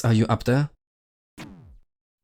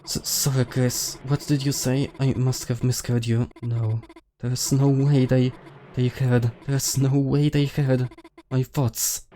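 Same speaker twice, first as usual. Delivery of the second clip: lightly acted nervous classmate, halting between phrases; anxious game character; 2 semitones higher than usual. Character fears thoughts were heard.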